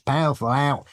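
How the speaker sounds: a light Australian go at "Powerful owl", vowels squashed as "pafa lout"; Australian accent attempt. Shown as a demonstration. Guest sounding out the owl's name for listeners, light Australian accent. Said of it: "tell us how to say that without sounding crazy".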